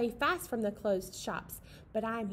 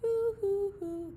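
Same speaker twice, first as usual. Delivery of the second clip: owl hoots; 8 semitones higher, slower than usual. Pretend. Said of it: "The owl in the tree says".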